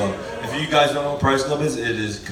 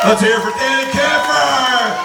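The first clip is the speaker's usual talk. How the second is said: loud, high hype intro; announcer shout; 13 semitones higher, 7 dB louder than usual. Real, not acted. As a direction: announce him like a ring host. Introducing the next speaker.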